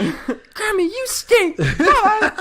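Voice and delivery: mimicking a little girl's voicemail; little kid voice. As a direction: chirp it like a tiny child telling off her grandma.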